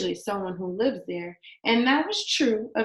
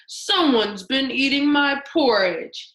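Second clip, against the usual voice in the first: Daddy Bear's mild mock growl, a bit louder; 3 semitones higher, 5 dB louder than usual. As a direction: growl it lightly like a big bear. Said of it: "he growled".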